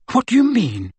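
high-pitched, anxious query; breathless question. A narrator's reading. Hermione questioning Aberforth's hint, breathless. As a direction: ask as if catching your breath. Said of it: "asked Hermione breathlessly".

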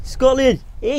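high, loud shout of the name; cheering shout. Acted. Hosts hyping Scotland, shouting the name. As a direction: yell it like a terrace chant.

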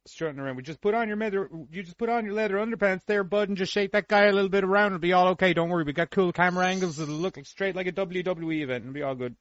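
gentle Canadian director reassuring the actor; Canadian accent. Acted. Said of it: "trying to do the Canadian accent".

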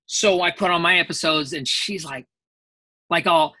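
usual speaking voice

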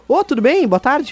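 friendly greeting. Retold or imitated. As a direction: greet a stranger in passing, brightly pitched. Acts out greeting a stranger.

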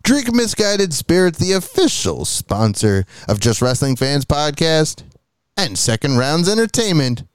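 upbeat sponsor read; chipper 1950s ad. Acted. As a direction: sell it like an old radio ad.

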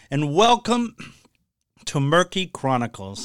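frog in the throat; slightly croaky, hoarse voice. Real, not acted. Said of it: "Sounds like I got a frog in my throat".

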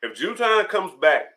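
talking around ice in mouth. Real, not acted. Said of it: "I don't know why I put ice in my mouth".

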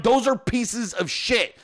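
slow, word-by-word insistence; retold insistent repeat. Husband insisting after wife denies it, slow emphatic retort. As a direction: spell it out slowly, mimicking an argument.

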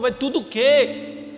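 exasperated questioning. Retold or imitated. Pastor repeats his exasperated question.

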